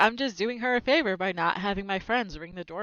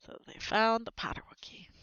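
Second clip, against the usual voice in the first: whisper; 6 dB quieter than usual. Real, not acted. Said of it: "unvoiced whisper".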